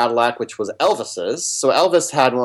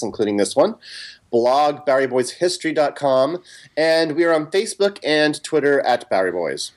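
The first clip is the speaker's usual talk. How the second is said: radio announcer. Acted. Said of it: "so I sound like a radio announcer".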